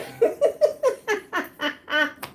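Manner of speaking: long laugh; high laugh. Real, not acted. Ending story time, long high laugh. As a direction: laugh to close the tale.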